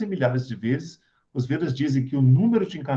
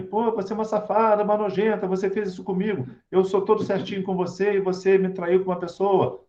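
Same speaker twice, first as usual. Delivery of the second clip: higher-pitched, aggrieved mock accusation; mock angry condemnation; 4 semitones higher than usual. Betrayed boyfriend scolding his girlfriend in an example, mock angry. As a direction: act out a betrayed partner's indignant reproach. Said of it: "Eu fico com raiva dela".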